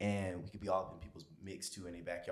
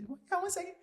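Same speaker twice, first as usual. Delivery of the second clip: friend's voice; faster than usual. Retold or imitated. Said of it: "he said".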